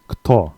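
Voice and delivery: kto, short k-t cluster. Shown as a demonstration. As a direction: kto with a crisp k-t start. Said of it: "K T O".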